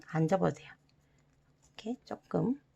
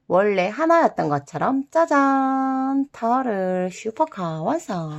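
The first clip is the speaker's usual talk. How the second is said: grand reveal; 3 semitones higher, 10 dB louder, slower than usual. Real, not acted. Announcing the finished craft.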